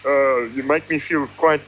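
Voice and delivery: thick Afrikaans-tinged English; South African accent. Acted. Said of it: "A terrible South African accent".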